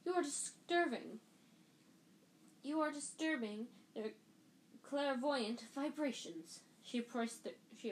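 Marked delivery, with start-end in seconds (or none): 0.0-6.6 offended seer. A narrator's reading. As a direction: draw out the vibrations grandly. Trelawney scolds the class.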